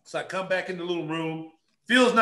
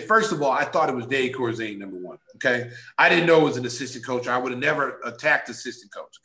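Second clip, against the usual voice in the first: low earnest pleading; 7 semitones lower than usual. Retold or imitated. Player explaining himself to the GM, low and insistent.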